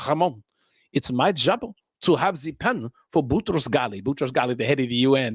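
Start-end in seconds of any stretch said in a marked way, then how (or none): 0.1-4.0 put-on French accent. UN boss lecturing young Ramon, mild French accent. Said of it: "in his thick French accent".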